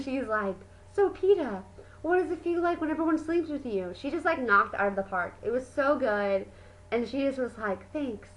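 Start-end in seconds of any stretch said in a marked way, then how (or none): 0.9-3.9 lightly mimicked sassy teasing, pitched up; mock sassy. Johanna needles Peeta in the elevator scene, mock sassy. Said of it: "just so sassy". 7.9-8.3 short, softer sassy quip. Retold or imitated. Johanna tosses off a thanks, imitated sassy. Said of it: "just so sassy and".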